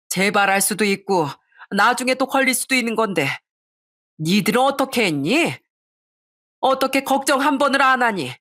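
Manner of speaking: a mother's hurt, rising anger; mother berating son and his wife, angry; indignant scolding. Acted. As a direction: scold your children for their greed. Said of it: "그렇게 제가 소리를 치자".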